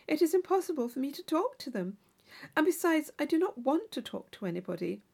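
a hint of a naive girl chatting at a ball; Catherine's voice. Young Catherine chatting with her dance partner, lightly eager.

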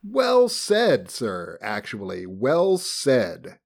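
hammed-up admiration; mock approval. Mock applause for the passage.

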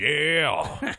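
metal-frontman "yeah"; mock rock-star growl; a metal band. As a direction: answer like a thrash singer. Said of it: "imitation of a metal band".

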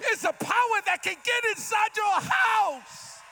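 preaching Jesus. Acted. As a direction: build toward the shout. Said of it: "He said".

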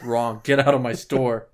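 a mock furious shop owner ejecting a customer; mock angry owner. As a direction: throw the customer out for fun.

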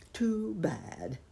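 breathy whisper of pity; whispered to himself. Acted. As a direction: murmur it privately, saddened. Thinking to himself, hidden.

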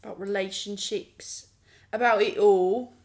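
a hint of a British reality-show accent, slowed; lightly put-on Love Island British accent. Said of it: "You and that accent".

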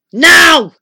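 one high, thunderous burst; thundering. A narrator's reading. Giant wizard turns to business with his visitor, thundering. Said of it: "thundered Wizard Winterbottom".

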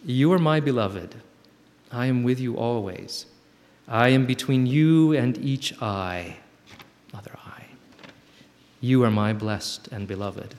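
slow, gentle, reassuring; a tender, unhurried voice of God; tender reply from God. Acted. God's reply read.

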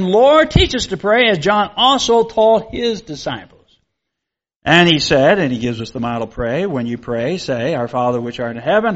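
measured reading of scripture to the congregation. Acted. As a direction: read the Bible passage aloud with solemn care. Reads Luke eleven and the prayer.

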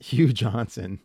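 "Hugh Johnson" repeated through a chuckle; laughing repeat. Real, not acted.

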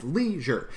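"leisure" said LEI-sure, first syllable stressed, second dropped. Shown as a demonstration. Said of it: "It's stressed, unstressed".

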